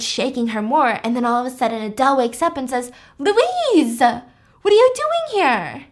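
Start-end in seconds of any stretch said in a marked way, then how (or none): 3.2-5.8 higher, slow drowsy voice of a woman just woken; a half-asleep friend, voiced high and slow; groggy friend. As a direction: act like you just woke up confused. Groggy Adele voiced in story.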